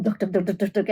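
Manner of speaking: rapid run of chopping "tuk" sounds; imitated chopping noise. Warning listeners about chopping to music, imitated rapid chopping. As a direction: mimic quick knife strokes with the tongue. Mimics chopping along to beats.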